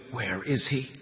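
a weak, rasped question; hoarse. A narrator's reading. Anton just woken, asking hoarsely for his son. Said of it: "he said in a hoarse voice".

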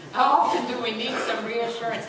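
said through laughter; laughing. Real, not acted. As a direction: still laughing while asking.

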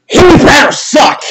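sudden frustrated shout; bitter outburst. Real, not acted. Fan cursing a rival's new player, bitter outburst. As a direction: burst out, punching each word.

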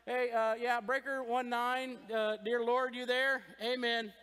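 slow trucker radio chatter, mildly done; a hint of CB lingo; CB radio talk. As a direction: call God like a CB trucker. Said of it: "Like we're on a C B".

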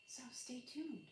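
soft whisper, slowed down. Real, not acted. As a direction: lean in and breathe it. Teasing sign-off.

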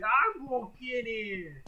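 shouting loud as he walks in; loud call. Real, not acted. Gamer shouting as he enters the room. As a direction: announce it loudly to chat.

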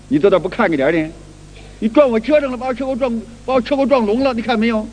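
lightly acted bully shifting blame; mock blaming quarrel. Unreasonable cyclist blaming the victim, a mock indignant quarrel.

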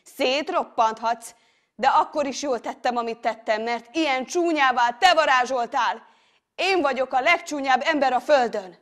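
loud, high, accusing outburst; anguished defiance. Acted. Man accusing the monster of making him ugly, defiant. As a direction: hurl the blame back at the monster.

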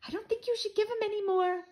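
soft, secretive voice to mom; hushed tattling to his mother; whispered aside. A narrator's reading. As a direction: lean in and whisper. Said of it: "I whispered to my mom".

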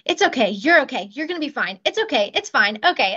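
rushed, anxious pile-up of reassurances. Shown as a demonstration. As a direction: imitate several worried people reassuring a patient at once. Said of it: "you can feel the anxiety".

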